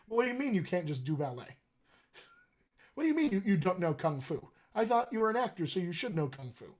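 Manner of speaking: hammed-up disbelief of a clueless producer; imitating an indignant, puzzled boss; mock incredulous. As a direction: act baffled that they can't do it. Acting out clueless producers' demands on actors.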